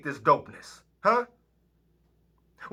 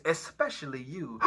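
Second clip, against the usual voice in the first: breaking voice; 3 semitones higher than usual. Acted. Voice breaks, gasp.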